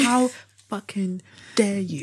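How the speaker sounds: lightly acted slow indignation; mock offended racist. Co-host mimics a racist being called out, mock offended. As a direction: draw it out, pretending to be affronted. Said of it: "nothing that offends a racist more".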